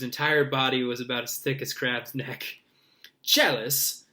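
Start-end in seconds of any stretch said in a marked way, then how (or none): 3.2-4.0 scornful. Acted. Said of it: "said Malfoy".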